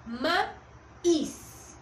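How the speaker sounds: maíz split in two, second syllable punched; stress on the í. Shown as a demonstration. Teacher showing students the tonic syllable, stressed ÍZ in maíz. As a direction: hit the ÍZ of maíz harder, after a short break. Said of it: "es la que se escucha con más fuerza".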